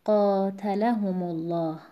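قاتلهم الله recited slowly, stressed as in قاتلهم alone; slow, measured recitation of قاتلهم الله; same stress when linked. Shown as a demonstration. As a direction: link قاتلهم الله without moving the weight onto "mu".

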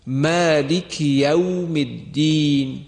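slow careful Quranic recitation of مالک یوم الدین. Shown as a demonstration.

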